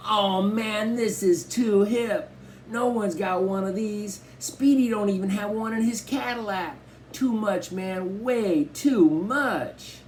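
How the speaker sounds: high, stretched-out thrilled cry; cool teen losing his cool; excited outburst. A narrator's reading. Byron forgetting to be cool, thrilled high cry. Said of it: "he screamed out".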